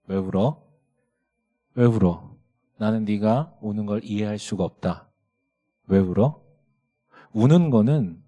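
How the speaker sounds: low, measured telling-off; deliberate, restrained scolding; stern father. Retold or imitated. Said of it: "내가 선을 그어줘야 되겠다".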